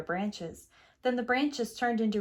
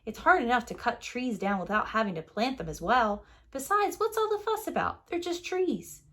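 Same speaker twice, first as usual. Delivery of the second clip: a bit grumpy; 2 semitones higher than usual. Acted. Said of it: "he got a little grumpy".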